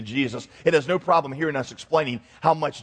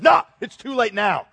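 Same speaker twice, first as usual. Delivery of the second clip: lightly voiced dismissive God, pitched up; mock God; 5 semitones higher, 3 dB louder than usual. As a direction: brush off the plea as a mock-callous God. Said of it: "And God says".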